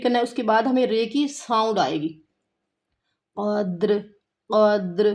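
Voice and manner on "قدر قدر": قدر with a voweled دال; the mistaken قدر; wrong reading. Shown as a demonstration. Teacher shows students the wrong قدر again. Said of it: "قدر نہیں پڑھنا".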